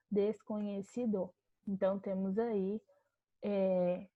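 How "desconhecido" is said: Desconhecido said slowly, syllable by syllable; deliberate teacher's slow model word; slow syllabified word. Shown as a demonstration. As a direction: spell out Desconhecido slowly for the class. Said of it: "a nossa divisão silábica da palavra desconhecido".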